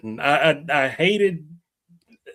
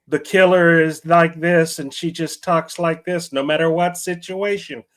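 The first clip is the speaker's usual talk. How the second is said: monotone killer impression. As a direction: mimic a monotone line delivery. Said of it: "this is the most monotone".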